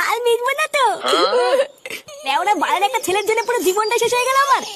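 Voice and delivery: crying. Acted. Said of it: "কান্না করে না".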